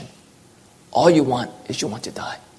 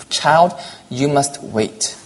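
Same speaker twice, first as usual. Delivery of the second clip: gentle; much slower than usual. Acted. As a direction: say it like a patient father calming a child. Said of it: "the master so gently said".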